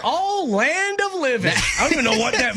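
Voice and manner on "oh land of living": put-on higher, slow old-lady exclamation; grandma's exclamation. Host imitating her grandma's startled exclamation, higher and slow. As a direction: channel a startled Iowa grandma. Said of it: "She'd be like".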